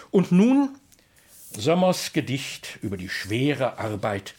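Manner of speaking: lively, rhythmic Kassel dialect verse; dialect poem recitation. Acted. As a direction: recite it like an old folk poet.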